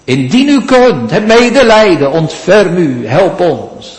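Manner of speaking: high, loud desperate plea; pleading cry. Acted. The father begging Jesus to help his son, loud and high. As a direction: cry out for mercy. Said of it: "had de vader geroepen".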